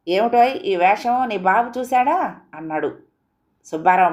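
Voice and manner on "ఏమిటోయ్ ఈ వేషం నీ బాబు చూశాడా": higher, slow, disapproving uncle. Acted. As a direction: look him over and sneer slowly. (మామయ్య, నెమ్మదిగా చీదరింపు)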